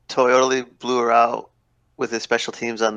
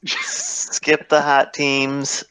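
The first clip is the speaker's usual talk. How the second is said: laughing; 4 semitones higher than usual. Real, not acted.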